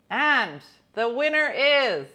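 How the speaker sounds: hammed-up awards host reading nominees; mock Oscars presenter; awards announcer.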